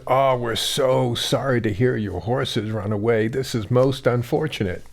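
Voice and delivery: softly voiced, mild commiseration; mock commiseration. Neighbours consoling a farmer over his lost horse, mildly commiserating. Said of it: "came around to commiserate with him".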